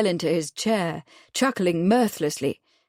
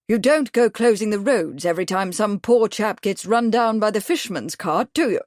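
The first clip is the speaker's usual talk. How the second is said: growled; 3 semitones higher, 3 dB louder than usual. Acted. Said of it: "Bradford growled".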